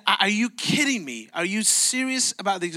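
acted disbelief. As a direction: react as the affronted buyer, mildly indignant. Retold buyer reacts to coffee charge.

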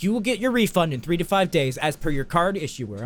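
lightly voiced customer-service script; a hint of official recitation; Domino's staff. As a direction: recite it like a stiff employee. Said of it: "They're like".

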